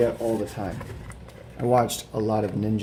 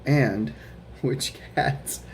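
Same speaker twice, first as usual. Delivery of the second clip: words slowed by a real laugh; laughing mid-sentence; 2 semitones higher, much slower than usual. Real, not acted. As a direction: giggle through the words, slowly. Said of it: "Sorry, I'm laughing".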